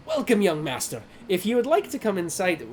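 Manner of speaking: lightly voiced Scottish host; Scottish-accented greeter, unhurried. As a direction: welcome them in with a Scottish lilt. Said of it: "why does this guy have a Scottish accent too?".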